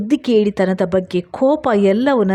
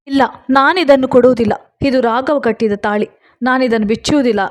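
passionate refusal; 4 semitones higher than usual. Acted. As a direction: refuse him with rising passion. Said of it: "ನಾನು ಭಾವಾವೇಶದಿಂದ ಹೇಳಿದೆ". (ಭಾವಾವೇಶದ ಜೋರಾದ ನಿರಾಕರಣೆ)

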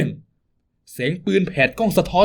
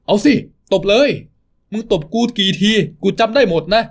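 defiant sarcasm; 5 semitones higher than usual. Acted. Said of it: "เสียงประชดประชันอย่างไม่คิดหวั่นกลัว".

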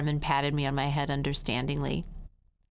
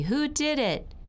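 high, drawn-out demand; demanding principal; 10 semitones higher than usual. Acted. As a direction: call out the question like a principal. Principal demands the culprit from children.

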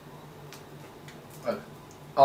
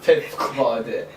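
slow savoring; 6 semitones lower, much slower than usual. Real, not acted. Repeats verdict slowly.

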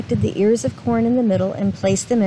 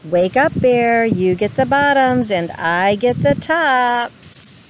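calling out; slower than usual. Acted. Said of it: "Hare called out".

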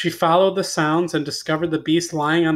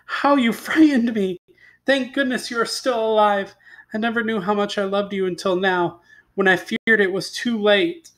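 higher, mildly tearful relief; a touch of sobbing; 5 semitones higher than usual. Acted. Beauty confesses her love to the beast, mildly tearful.

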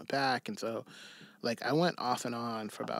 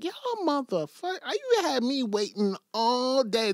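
mock anger; 12 semitones higher, 7 dB louder than usual. Retelling his own mock complaint.

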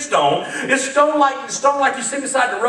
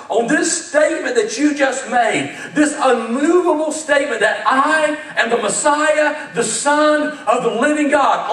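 fervent Jesus; slower than usual. Acted. Preacher voices Jesus, fervent.

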